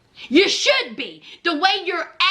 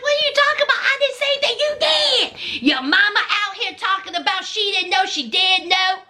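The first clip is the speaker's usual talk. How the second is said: high, fast, exasperated retort; exasperated yelling; 9 semitones higher, faster than usual. Retold or imitated. Husband yelling back at his wife, exasperated. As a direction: fire back in disbelief. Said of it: "Troy was like".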